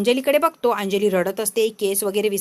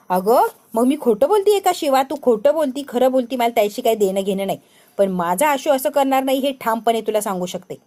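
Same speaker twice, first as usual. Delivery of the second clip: heated retort; 5 dB louder than usual. Acted. Friend and wife quarrel.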